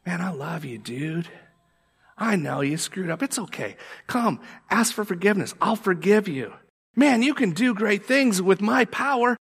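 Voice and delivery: loving, then building to a shout; tender reassurance rising to a cheer; voice of Jesus. Acted. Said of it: "that's the voice of Jesus".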